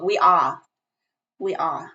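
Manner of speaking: badly faked East Coast girl accent; Jersey accent. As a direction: try a Jersey accent, not very convincingly. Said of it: "talk like a Jersey West Co".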